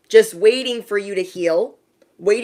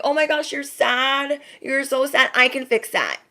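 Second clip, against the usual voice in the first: high-pitched mock sympathy; Ursula; 6 semitones higher than usual. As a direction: play the villain offering help with put-on pity. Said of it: "It's like Ursula and the Little Mermaid".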